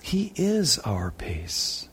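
slow, soft, deliberate; tender affirmation. Real, not acted. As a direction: lay it down gently. Preacher slows for key truth.

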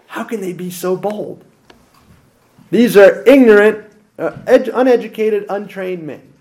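a touch of indignant disbelief; mildly scandalized. Acted. Shocked council reacting to the untrained apostles, mildly indignant. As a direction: play the affronted council, understated. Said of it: "hyperventilating a little bit".

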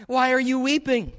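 high, loud baffled question; acting out an astonished angel; perplexed. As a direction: ask it in emphatic disbelief. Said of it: "So the angels are perplexed".

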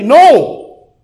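loud, high exclaimed no; emphatic denial. Real, not acted. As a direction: burst out with a forceful refusal. Preacher rebuts own question.

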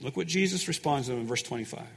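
ordinary delivery

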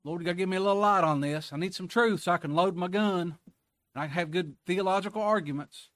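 mock eager believer. Preacher mocking a believer who wants ammunition, fast and loud. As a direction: poke fun at the argument-seeker.

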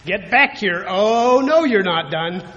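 a hint of a stern mother calling back; mother scolding. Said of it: "as my mother would speak those words".

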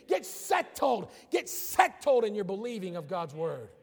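"Get settled" drawn out slow; preacher commands slowly; slow exhortation. Real, not acted. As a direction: stretch each word.

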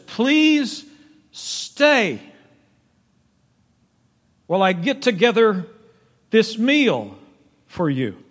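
high, drawn-out earnest plea; Gideon's high pleading invitation. Acted. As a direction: beg the guest to stay, reaching high.

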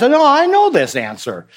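mock excited burst of sudden recognition; excited realization. Child tells pastor they know this answer after all, excited.

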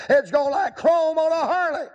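high, loud punchline shout; emphatic shout. Acted. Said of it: "preacher's emphatic punchline".

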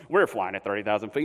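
very low, deadpan pilot announcement; unbothered pilot. Retold or imitated. Pilot to panicking passengers, low and unworried. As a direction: drop way down into a calm captain's voice. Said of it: "the pilot never even says anything. He's like".

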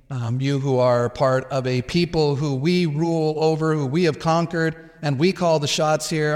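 mock him as the ruler who calls the shots; sarcastic, mocking question. Shown as a demonstration. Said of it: "sarcasm and derision in the way he asks".

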